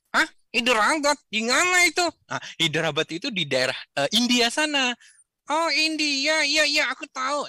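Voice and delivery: put-on high, eager little boy telling about his friend; child puppet voice. Puppet Rio telling Kak Izul about Udin, in a high eager voice. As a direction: chatter like an excited kid.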